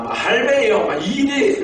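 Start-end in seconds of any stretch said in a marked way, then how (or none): 0.1-0.9 put-on high, playful Busan accent call; Busan dialect imitation. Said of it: "부산 사투리 쓰기에 바쁜 거예요". 1.0-1.6 high mimicked Busan accent; Busan dialect imitation. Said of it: "막 이래 하는 거예요".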